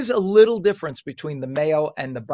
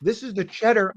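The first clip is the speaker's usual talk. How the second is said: talking through a mouthful of sandwich; chewing while speaking; mouth full; 5 semitones higher than usual. Real, not acted. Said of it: "sorry to talk with my mouth full".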